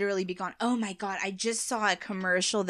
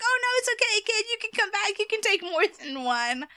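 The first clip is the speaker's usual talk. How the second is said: raised, high reassuring call. Retold or imitated. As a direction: call out after the fleeing kid. Owner calling the kid back.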